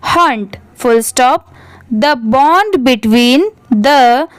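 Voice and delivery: very slow, pausing between phrases; careful read-aloud. Shown as a demonstration. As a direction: dictate slowly, punctuation included. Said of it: "पूरे paragraph को एक बार अच्छे से written read". (धीरे-धीरे, रुक-रुककर पढ़ना)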